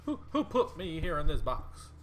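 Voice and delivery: bewildered questions, voice lifting; confused mummy. Acted. Game master voicing the mummy climbing from its sarcophagus, confused. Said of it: "Just like".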